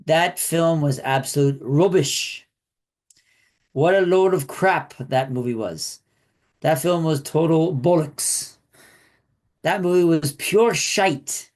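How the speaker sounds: slow, careful attempt at British slang in a British accent; reading British insults in a put-on British accent, slowly; American trying a British accent; bad British accent. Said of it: "my terrible British accent".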